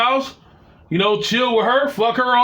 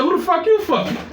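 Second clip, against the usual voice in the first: angry accusation; 9 semitones higher than usual. Retold or imitated. He throws her question back.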